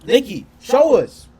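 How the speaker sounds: loud, slow call to Nicki; yo, raise it and drag it out. Real, not acted. Streamer calls out to Nicki to show proof, loud and slow.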